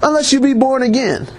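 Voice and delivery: high-pitched, insistent preaching; urgent preacher pressing the point, pitch climbing; emphatic insistence. Real, not acted. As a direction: drive each point home with pitch held high. Preacher insisting there is no exception.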